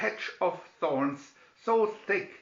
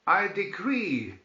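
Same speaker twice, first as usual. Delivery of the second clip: slow, higher royal decree; ordered; 5 semitones higher, 3 dB louder than usual. Acted. King decreeing to the whole kingdom, slow and commanding. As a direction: proclaim it like a king. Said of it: "he ordered".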